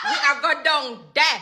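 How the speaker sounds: rural Jamaican patois demo; Jamaican country accent. Shown as a demonstration. Hairstylist demonstrates for viewers, Jamaican country patois. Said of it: "make them get the accent".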